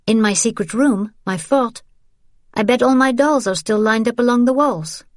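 a pleading daughter remembering home; young woman voice. Acted. Isabelle voiced, higher pitch.

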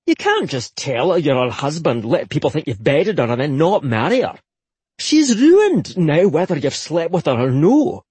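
firm Highland brother, rising at the end; stern Scottish man. Acted. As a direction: press him hard, Scottish lilt. Man scolds friend about marriage.

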